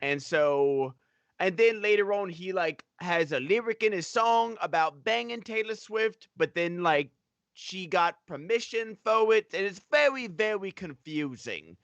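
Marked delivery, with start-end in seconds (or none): 1.4-11.8 put-on British accent. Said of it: "British accent".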